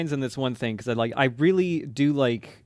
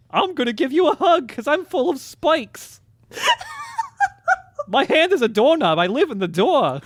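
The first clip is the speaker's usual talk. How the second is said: Wired voice of a singer; 6 dB louder than usual. Acted. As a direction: draw out a strange, silly character voice. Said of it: "That's an uncanny impression".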